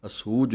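ਅਸੂਜ said tight with a firmly pressed ਜ; tight pronunciation. Shown as a demonstration. Teacher models ਅਸੂਜ for students, said tightly. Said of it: "ਇਹ ਵੀ ਕੱਸ ਕੇ ਹੈ।".

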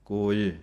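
ਕੋਏ with both vowels long, ko-ay. Shown as a demonstration. Teacher showing how to read ਕੋਏ. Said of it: "ਦੋਵਾਂ ਦੀ ਆਵਾਜ਼ ਲੰਮੀ ਹੈ".

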